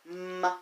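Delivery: M-E-G spelled letter by letter; sounding out letters. Shown as a demonstration. Teacher spelling M-E-G to her pupils. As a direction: spell it out slowly for the class. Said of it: "Look at the word Meg".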